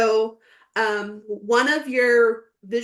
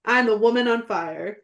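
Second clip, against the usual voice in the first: real tears in the voice, rising; tearful declaration; 3 dB louder than usual. Real, not acted. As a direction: say it again through tears. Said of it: "Say it again".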